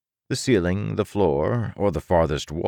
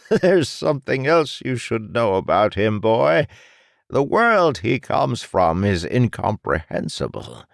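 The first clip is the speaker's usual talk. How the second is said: much higher, airy mad doctor; gleeful villain; 6 semitones higher, 5 dB louder than usual. Acted. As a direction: relish the cruelty, mock-casual. Doctor reveals name.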